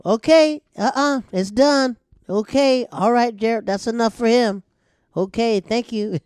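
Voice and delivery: very high, loud flustered mom; mom shutting it down. Retold or imitated. Mom stopping her son's dirty joke, very high and loud. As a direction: cut the show off in a high panic. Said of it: "see my mom stand up".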